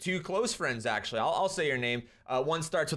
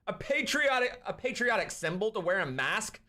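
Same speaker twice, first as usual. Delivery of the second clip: incredulous; 5 semitones higher than usual. Real, not acted. Incredulous echo of Biden's words.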